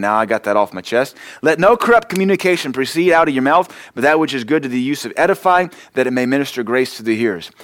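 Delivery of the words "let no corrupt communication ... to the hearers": lifting the verse higher and louder the second time; preached louder, higher. Shown as a demonstration. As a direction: read it again with fresh force, voice up. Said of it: "Let's read this verse again".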